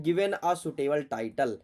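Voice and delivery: each word read out very slowly; slow, careful read-aloud; slow dictation. Shown as a demonstration. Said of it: "reading the question out slowly".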